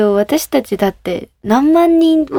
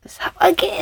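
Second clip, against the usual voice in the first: mock command; 8 semitones higher, 3 dB quieter, much slower than usual. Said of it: "すごい難易度高い".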